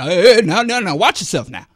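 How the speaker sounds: lightly hammed-up fussing old man; old black man. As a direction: imitate an old man fretting out a warning. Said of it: "I'm the old black man".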